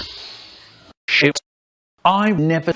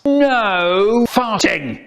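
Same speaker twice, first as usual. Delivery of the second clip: slow, drawn-out mock yell; mild mock yell; 6 semitones higher, much slower than usual. Teacher telling the class off, a slow mild yell. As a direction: drag out the order like a cross teacher. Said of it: "teacher starts yelling".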